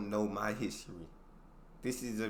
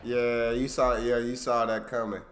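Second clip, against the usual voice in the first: excited; 8 dB louder than usual. Real, not acted. Excited reaction to video.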